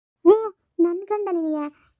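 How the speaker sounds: slow, drawn-out teasing taunt; lilting mistress taunt, slow; mocking mistress. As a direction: stretch it out to mock her. Mistress mocking the wife's husband.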